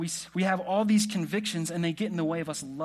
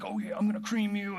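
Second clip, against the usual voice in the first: mock bragging; 4 semitones higher than usual. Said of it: "they're just bragging".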